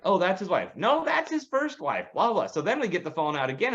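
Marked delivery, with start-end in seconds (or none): 0.0-2.5 much higher, slowed, a hammed-up chatty voice; mock gossip. Couple chatting about Tom Cruise's wives, hammed up. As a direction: parody the couple correcting each other. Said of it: "it's like".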